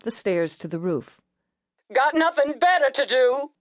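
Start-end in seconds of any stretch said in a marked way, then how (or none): 1.9-3.5 higher, louder, hopeless man; despondent jumper. Acted. Jumper answers the negotiator, despondent. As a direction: say it like nothing matters.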